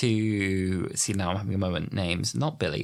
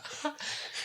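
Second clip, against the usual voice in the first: wheezy laugh; 14 dB quieter than usual. Real, not acted. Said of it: "I've got a wheezy laugh today".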